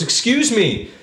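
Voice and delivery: high sweet fake-helpless plea; creepy killer lure. Stranded killer luring a hiker, high sweet plea. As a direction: lure her in with a high innocent voice. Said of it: "there and goes".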